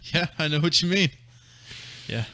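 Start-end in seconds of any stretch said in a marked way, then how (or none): 0.1-1.1 empty filler line. Retold or imitated. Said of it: "I just say nothing sentences".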